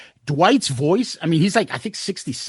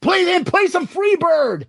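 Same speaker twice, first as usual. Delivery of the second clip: mock heckle; 11 semitones higher than usual. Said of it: "he goes".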